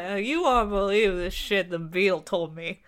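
slurring like a tipsy bat, lightly voiced; town drunk. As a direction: slur the words a little, barroom gossip. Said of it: "slurring his words like".

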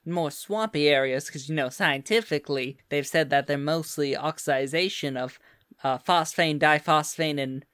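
put-on lilting Southern US accent; Southern accent, explaining with interest; Southern belle. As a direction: talk like a Louisiana Southern belle. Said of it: "Come on, Southern Belle, y'all".

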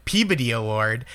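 Peabody said the Eastern Massachusetts way, PEE-buh-dee; Massachusetts local saying Peabody; Boston accent. Shown as a demonstration. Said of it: "I've been made fun of for this".

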